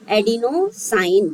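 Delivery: adenosine stretched out very slowly; teacher repeating the word slowly; slow sounding out. Shown as a demonstration. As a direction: drag adenosine out for the class. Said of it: "तो देखो".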